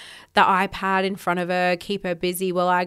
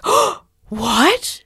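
high gasp, then a rising "Oh, what?"; surprised gasp; 9 semitones higher, 6 dB louder than usual. Retold or imitated. Daughter hears they'll dance in the rain, gasps. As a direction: gasp in delighted disbelief. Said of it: "And she was like".

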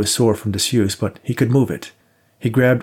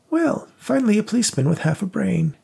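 put-on high, scornful old woman; 12 semitones higher than usual. A narrator's reading. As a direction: sneer it as a bitter old lady. Rose's voice in narration.

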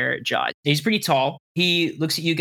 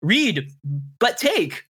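higher, mysterious chant of a riddle; cryptic riddle; 7 semitones higher, slower than usual. Acted. GM reading the book's cryptic riddle to Eric, intoned higher. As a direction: intone it like an enigmatic inscription.

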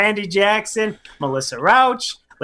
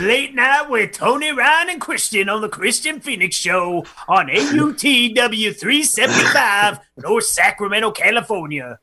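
a thrilled fan on air; excited on TV; 5 semitones higher than usual. Retold or imitated. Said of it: "that was the excitement of".

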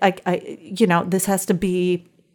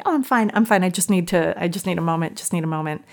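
retold brave face; faster than usual. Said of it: "I'm like".

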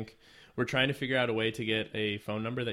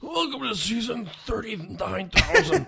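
laughing; 13 semitones higher, 8 dB louder than usual. Real, not acted. Joking about a long-running podcast.

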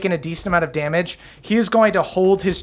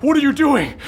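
higher, sneering villain snapping at a fool; Akarat's scornful voice; 8 semitones higher than usual. Acted. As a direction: scoff at her like a vain dark god. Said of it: "And Akarat goes".

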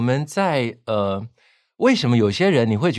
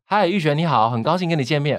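slightly raised presenting pitch; voice for ten people; 4 semitones higher than usual. Shown as a demonstration. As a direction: lift it a bit for a small room. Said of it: "十个人大概就是". (对十个人说话，音调稍高)

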